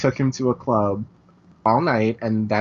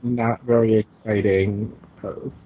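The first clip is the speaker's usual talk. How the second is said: distant, off-mic voice; far from mic; 4 semitones lower than usual. Real, not acted. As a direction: speak from across the room. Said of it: "it sounds like you're far away".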